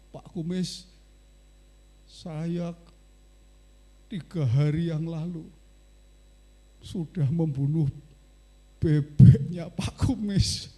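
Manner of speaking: put-on a scared boy half-confessing, voice a little shaky; trembling with fear. Scared boy confessing to Pak Kumis, mildly trembling. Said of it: "nadanya gemetaran itu".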